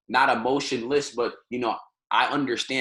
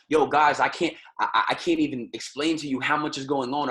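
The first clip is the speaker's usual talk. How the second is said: excited, energetic. Shown as a demonstration. Teacher demoing how an energetic speaker sounds, hyped. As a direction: sell it like you're pumped to tell them. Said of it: "If you're talking to somebody like this".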